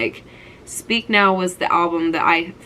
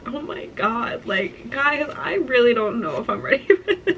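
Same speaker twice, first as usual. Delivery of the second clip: teary; 4 semitones higher, 3 dB quieter than usual. Real, not acted. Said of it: "The tears in my eyes right now".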